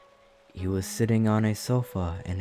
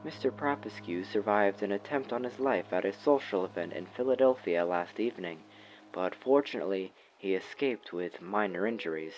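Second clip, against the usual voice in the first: quieter, newsreader cadence on TV; news anchor; 5 dB quieter than usual. A narrator's reading. TV anchor reading the headline, smooth broadcast tone. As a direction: read it like a TV anchor.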